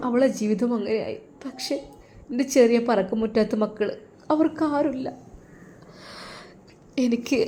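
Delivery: a mother near tears, pleading softly with her husband's student; tearful plea. Acted. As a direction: speak through held-back tears, quietly. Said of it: "ആ ഉമ്മയുടെ ആ ഒരു കണ്ണുനീർ".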